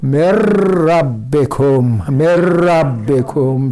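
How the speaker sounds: slow मेर रबे को with the ra doubled; slow recitation. Shown as a demonstration. Teacher recites slowly for students, ra doubled. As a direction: draw out मेर रबे को, the nun swallowed into रर. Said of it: "ये लफ्ज़ ऐसे पढ़ा जाएगा".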